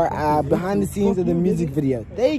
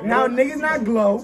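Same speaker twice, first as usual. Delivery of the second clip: laughing; 4 semitones higher, slower than usual. Retold or imitated. Mocking joke, laugh heard.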